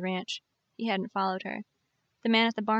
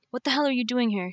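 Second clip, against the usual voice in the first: angry; 4 semitones higher, 4 dB louder than usual. Acted. Angry man finds her at fire.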